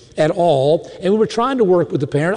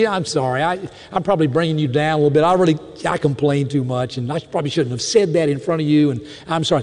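weak apology; 3 semitones lower than usual. Acted. Voices complainer's weak apology.

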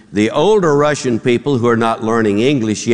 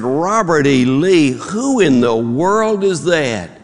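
higher, drawn-out puzzled question; mock bafflement; 4 semitones higher, slower than usual. Man on the ledge to counselor, baffled. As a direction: ask it slowly in acted disbelief.

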